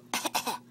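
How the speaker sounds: fake cough. Shown as a demonstration. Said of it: "Can you do a fake cough?".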